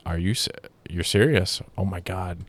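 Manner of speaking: softly stunned, trailing away; quiet, understated mock shock; hushed retold disbelief. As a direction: replay your disbelief, dropping the volume. Retelling own shock at the news.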